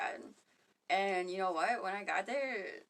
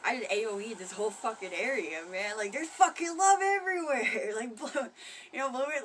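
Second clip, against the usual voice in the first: rising to a much higher, much louder joyful shout; mock elated cheer; 3 semitones higher, 7 dB louder than usual. Someone spreading joy cheering about love everywhere, rising to an elated shout. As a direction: burst out proud of spreading love. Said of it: "you're like".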